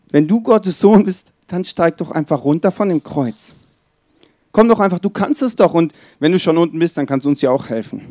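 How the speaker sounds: high, sneering challenge, daring him to come down; mocking taunt. Criminal on the cross taunting Jesus, high and sneering.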